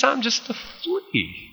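high, slow, playful squeak; mock little-flea voice, drawn out; tiny high voice. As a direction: make yourself small with a high pitch. David belittles himself to Saul.

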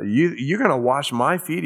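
stunned, disbelieving question; a touch of shocked Peter; shocked disbelief. Shown as a demonstration. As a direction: ask it as if you can't believe it. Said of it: "He was shocked".

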